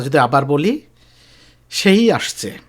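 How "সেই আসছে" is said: সেই pushed up high; emphasis on সেই in "সেই আসছে"; stress on সেই. Shown as a demonstration. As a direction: lean on সেই. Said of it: "আমরা জোর দিয়ে বলতেছি".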